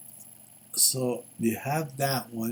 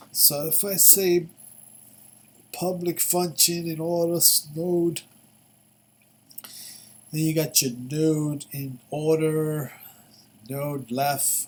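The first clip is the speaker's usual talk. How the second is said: put-on voice; 5 semitones higher, 5 dB louder than usual. Reading code in odd voice.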